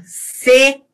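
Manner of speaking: "C" starting with a plain s; seseo with S. Shown as a demonstration. Teacher showing seseo, plain s at the start. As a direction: hiss "C" as "se". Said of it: "eu tenho com S".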